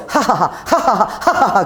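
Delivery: light retold ha-ha-ha laughter; mock joyous laughter; imitated laughing. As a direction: laugh it out like the healed old man. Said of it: "그러더라고".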